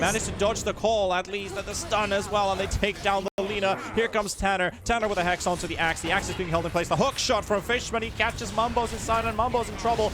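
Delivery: live esports casting, fast and loud; excited play-by-play. Real, not acted. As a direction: ride the teamfight with rising hype.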